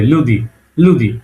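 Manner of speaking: "লুদি" with a softened "দি"; soft consonant demo. Shown as a demonstration. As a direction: model "লুদি" gently palatalised on "দি". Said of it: "এটা কিন্তু নরম ভাবে".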